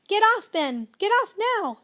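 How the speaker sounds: high, loud urgent command; yelling. A narrator's reading. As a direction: order the boy off right now. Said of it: "he yelled".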